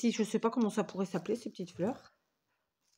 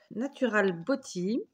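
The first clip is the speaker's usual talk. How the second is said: English said in a French accent. Real, not acted. Crafter showing viewers the album's English title, French-accented English. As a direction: say it slowly with your French accent. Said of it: "avec mon superbe accent, n'est-ce pas?".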